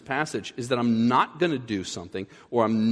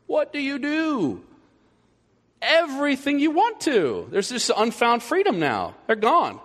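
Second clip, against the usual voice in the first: gleeful students; 11 semitones higher than usual. Acted. Students freed when teacher leaves.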